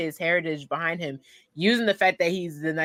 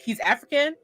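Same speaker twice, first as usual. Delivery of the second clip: surprised dad; 10 semitones higher than usual. Retold or imitated. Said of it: "And he's like".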